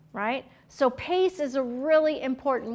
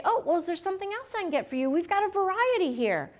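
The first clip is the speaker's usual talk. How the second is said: helpful clerk; 4 semitones higher, 3 dB quieter, faster than usual. Shown as a demonstration. Models a helpful reply.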